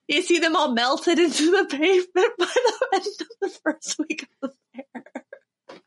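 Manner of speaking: Minnesota accent collapsing into laughter; breaking into laughter. Real, not acted. Comedian losing it over melted cookies, laughing in Minnesota accent. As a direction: crack up partway, laughing through the words.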